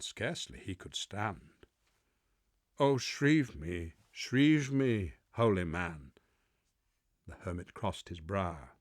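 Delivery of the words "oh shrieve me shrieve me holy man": pleading mariner. Acted. Mariner begs the hermit.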